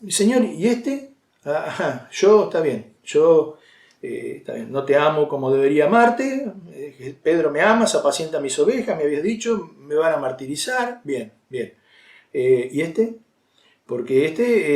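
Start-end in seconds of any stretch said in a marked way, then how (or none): 0.1-1.1 drawn-out, slow, wary question; half-mocking slow Peter asking about John; sceptical Peter. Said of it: "Y a mí me suena". 1.5-13.1 grudging Peter. Retold or imitated. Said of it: "Y a mí me suena".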